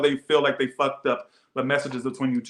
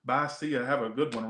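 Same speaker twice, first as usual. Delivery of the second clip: dry reaction; 2 semitones lower, 8 dB quieter than usual. Retold or imitated. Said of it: "I was like".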